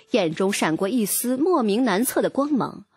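usual speaking voice

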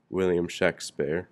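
Shakespeare said as SHACK-spair; short flat A in the first half of Shakespeare; spelling pronunciation. Shown as a demonstration. Narrator reading out signature spellings, Shakespeare said SHACK-spair. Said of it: "His six signatures read".

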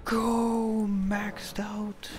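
high, loud thrilled yells; gasping with real excitement; excited. Real, not acted. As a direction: celebrate the upgrade out loud. Excited over maxed weapon.

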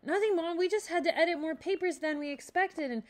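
lightly voiced boy, sure of himself; confident. A narrator's reading. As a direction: brush it off with confidence. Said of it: "said confidently".

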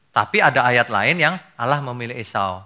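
ordinary talk

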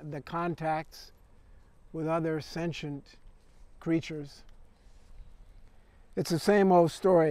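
conversational verse recital with line-break pauses; poem reading. Acted. Poet reads as a replicant chatting to another, conversational recital. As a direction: read the poem as one-sided chat, phrase by phrase.

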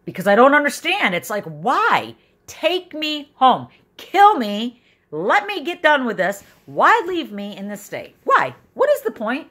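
high, loud, breaking cries of despair; pleading with God through tears; desperate wail at God; anguished crying out. Real, not acted.

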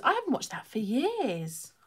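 hushed, fond whisper; whispered aside. Real, not acted. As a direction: say it to yourself under your breath. Wistful aside about an old film.

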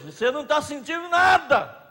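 grito de pregador; acusação gritada. Acted. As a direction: cobra a plateia em voz alta. (grito acusador)

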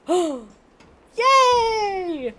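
high, delighted squeal; excited squeal. Real, not acted. Gamer squealing as her sword returns.

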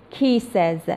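کیسز ending in a voiced "ez" syllable; ez plural ending. Shown as a demonstration. Teacher adding plural s to kiss, کیسز with clear "ez" ending.

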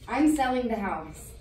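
firm, plain-spoken bad news; decisive, out in the open; firm announcement. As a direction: announce it outright, stressing I'm. Breaks news to sister.

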